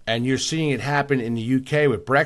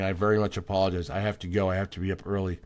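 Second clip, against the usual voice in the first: sleepy yawning; 5 semitones lower, 6 dB quieter, faster than usual. Real, not acted. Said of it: "Excuse me for yawning".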